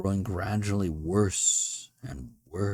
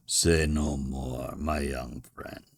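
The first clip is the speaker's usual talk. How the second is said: kindly; 5 semitones lower, slower than usual. A narrator's reading. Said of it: "he said kindly".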